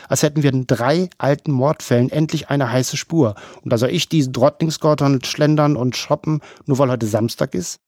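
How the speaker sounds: a hint of a sharp boss scolding her colleague. Voices the boss Welby.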